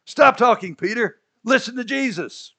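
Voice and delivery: God telling Peter off, loudly; stern command. Acted. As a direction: cut off a chatterbox sharply. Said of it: "I'm paraphrasing".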